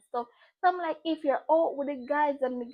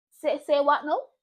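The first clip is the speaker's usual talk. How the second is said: stunned disbelief; 7 dB louder than usual. Retold or imitated. Stunned reply to pregnancy news.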